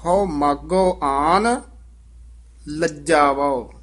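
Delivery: ਲਜਾਵੋ said taut and firm after a pause; slow, with ਲਜਾਵੋ held firm; tight pronunciation. Shown as a demonstration. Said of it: "ਲਜਾਵੋ ਕਸ ਕੇ ਬੋਲਣਾ".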